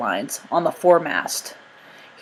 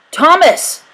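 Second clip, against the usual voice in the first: high, loud alarmed call; shout; 11 semitones higher, 7 dB louder than usual. A narrator's reading. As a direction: cry out as his friend falls. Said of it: "John shouted".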